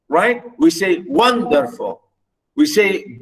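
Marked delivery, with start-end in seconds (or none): 1.1-2.0 "wonderful" with a strong WON, falling away after; WON-derful as a clear example; front-weighted "wonderful"; stress on first syllable. Shown as a demonstration. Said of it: "stress the first".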